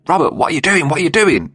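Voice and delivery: high panicked pleading cry; panicked scream. Retold or imitated. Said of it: "Daniel could hear Michael screaming".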